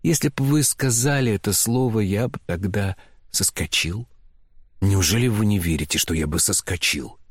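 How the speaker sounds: plain reading voice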